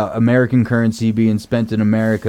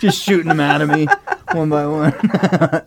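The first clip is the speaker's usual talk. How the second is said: cheeks stuffed full; 2 semitones higher than usual. Real, not acted. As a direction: mouth stuffed with marshmallows. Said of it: "He's breathing really good right now".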